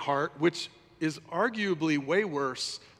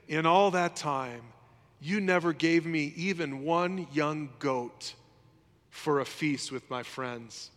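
slow resentful complaint; slower than usual. Retold or imitated. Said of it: "he says this".

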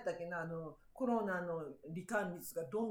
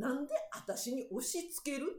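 firm retort. Retold or imitated. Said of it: "って".

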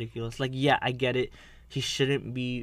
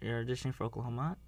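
lightly voiced Maddie; 9 dB quieter, much faster than usual. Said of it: "Maddie comes in, he's like".

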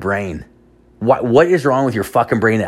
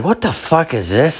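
high, baffled what the fuck; puzzled disbelief at the bag; mock surprise; 8 semitones higher than usual. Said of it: "I was like".

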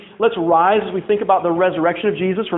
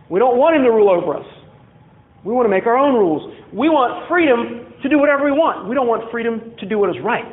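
higher-pitched defiant protest; defiant rebels; 3 semitones higher than usual. Acted. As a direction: voice rebels demanding their freedom. Acted rebels refusing God's rule.

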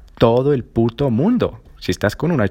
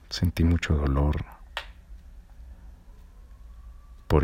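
quiet; 5 semitones lower, 8 dB quieter than usual. Real, not acted. Recounts being hurt.

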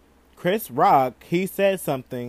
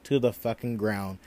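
slow stunned drawl; slower than usual. Real, not acted. Slow drawn-out shock.

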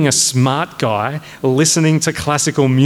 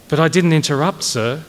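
higher-pitched protest, falling on sir; 3 semitones higher than usual. Acted. Cadet denying to the major that he interrupted, protesting. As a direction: object respectfully to an unfair charge. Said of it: "Clevinger protested".

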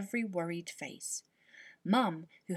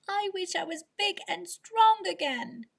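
high, loud, angry wish, leaning on "strong"; shouting at the top of his voice; 11 semitones higher, 6 dB louder than usual. Acted. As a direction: cry it out in frustration. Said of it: "He shouted at the top of his voice".

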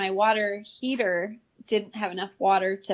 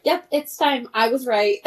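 triumphant mother-in-law; 4 semitones higher, 5 dB louder than usual. Retold or imitated. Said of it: "and she was like".

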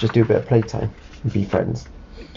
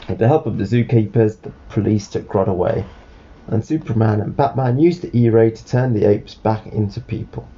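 measured read-aloud, winding down to the end; storybook narration. Acted. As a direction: bring a children's story to its close. Reads a storybook to child.

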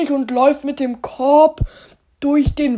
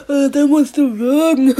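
slow words through laughter; laughing while talking. Real, not acted. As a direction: repeat it while still laughing. Repeats punchline laughing.

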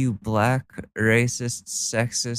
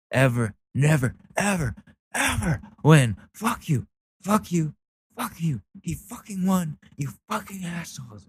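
high, whiny mock rant; high-pitched mock tantrum; mocking angry poster; 7 semitones higher than usual. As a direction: whine out the insults like the poster. Mock reading angry post.

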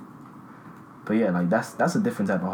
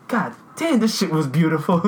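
amazed god damn; 5 semitones higher than usual. Retold or imitated. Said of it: "I'm like".

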